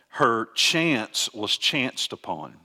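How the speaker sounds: "chance" and "chanced" spoken slowly and deliberately; stress on the doubling. Shown as a demonstration. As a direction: lean on "chance", then "chanced", taking your time. Literal Hebrew redundancy pointed out.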